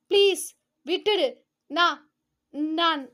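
plead, voice catching on நான்; stammering plea. Acted. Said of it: "நாக்குளர கெஞ்சியவர்". (தடுமாறி கெஞ்சும் குரல்)

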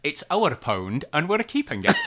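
Scottish impression again. Shown as a demonstration. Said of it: "Do it again".

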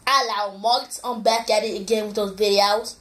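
put-on Australian accent; mock Aussie vlogger accent. Shown as a demonstration. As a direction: greet viewers in a light Australian accent. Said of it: "This is the Australian voice".

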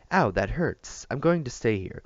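loud pained whine; pained protest. A narrator's reading. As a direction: cry out in pain and protest. Maria hurt, wrist grabbed.

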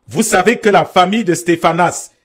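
measured scripture reading with pauses; lecture biblique à voix haute. Acted. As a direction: read the verse out deliberately, phrase by phrase. Lit un passage biblique. (lecture posée d'un verset biblique)

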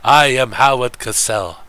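a hint of a measured old broadcaster; Howard Cosell impression. Streamer doing a light Howard Cosell bit. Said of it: "I like Howard Cosell myself".

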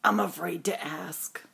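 soft whisper, a touch afraid; hushed nervous whisper; whispered dread. Acted. Elephant dreads the answer.

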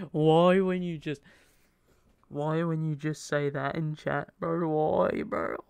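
loud, laughing disbelief at chat; excited shout. Real, not acted. Reacting to chat comment.

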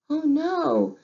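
high, loud gasp of dismay. A narrator's reading. Storyteller to children, dismayed at the stolen eggs. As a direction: cry out in dismay for the heron.

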